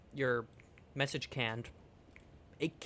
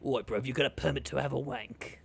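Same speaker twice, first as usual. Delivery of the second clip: put-on British accent. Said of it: "The U K government".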